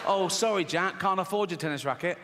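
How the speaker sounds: fast, exasperated mock apology; acted fed-up dad grumbling; resentful dad. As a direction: rant sourly as a put-upon father. Acts resentful dad apologising to Jack.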